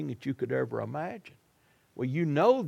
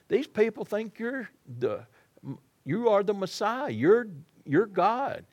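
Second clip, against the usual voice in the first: higher, lightly voiced pleading Peter; urgent, half-scolding plea; Peter scolding Jesus; 5 semitones higher than usual. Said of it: "Can't you just hear Peter".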